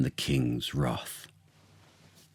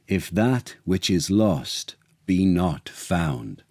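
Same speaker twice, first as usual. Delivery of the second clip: oracle's proclamation; 2 semitones higher than usual. Acted. Lord reading the oracle to the court, solemn and slow. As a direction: proclaim each verdict slowly and grandly.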